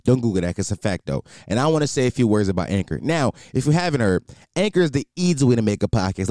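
casual, lively sponsor pitch; podcast ad read. Acted. Host pitches a podcast app to listeners, casual ad read. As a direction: sell it like a chatty host.

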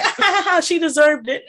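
high, loud mocking laughter. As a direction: laugh it off like a cruel crowd. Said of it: "and everybody's like".

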